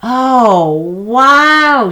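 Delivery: high, loud gasp of wonder; amazed. A narrator's reading. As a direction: awestruck girl. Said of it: "she said".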